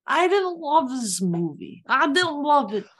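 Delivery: mock Russian, wobbly and amateur; playful stab at Russian accent; attempted Russian accent. Shown as a demonstration. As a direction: give the opinion in a put-on Russian accent. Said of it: "in that Russian accent".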